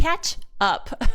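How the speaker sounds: correcting "Catch up" with a clear CATCH; careful pronunciation. Shown as a demonstration. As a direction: CATCH UP said as two separate words. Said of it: "Sounds like ketchup".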